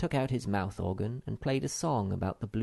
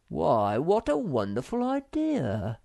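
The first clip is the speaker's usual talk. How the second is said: rising higher, delighted cry; excited exclaim; 5 semitones higher, 4 dB louder, slower than usual. Acted. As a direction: admire her idea out loud. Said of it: "exclaimed Moomintroll".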